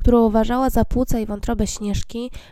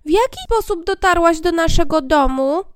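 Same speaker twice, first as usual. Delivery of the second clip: dwarf voice; 6 semitones higher, 5 dB louder than usual. Acted. Dwarf keeps asking.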